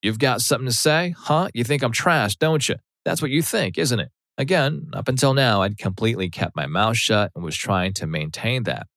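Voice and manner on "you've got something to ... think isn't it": higher, taunting Southern mom voice; mocking mom. Mom taunting daughter's boyfriend in a higher mock voice. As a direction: needle him like a crazy mom.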